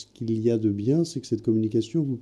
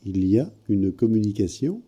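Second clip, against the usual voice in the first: to someone hard of hearing. Real, not acted. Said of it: "pouvez répéter une dernière fois".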